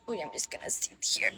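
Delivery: soft unvoiced whisper; hushed whisper to the viewers. Real, not acted. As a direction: breathe the words, no voice. Whispering to stream while sitting.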